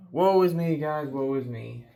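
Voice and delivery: grand tragic wailing, high and loud; Shakespearean actor. Acted. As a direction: melodramatic stage lament. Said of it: "I sound like a Shakespearean actor".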